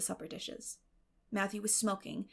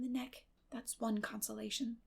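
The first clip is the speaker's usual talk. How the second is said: lightly voiced girl Anne; 2 semitones higher than usual. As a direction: talk on brightly as the girl. Anne's voice in the story.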